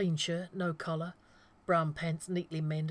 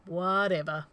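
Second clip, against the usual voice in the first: drawl; 6 dB louder than usual. Acted. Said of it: "John drawled".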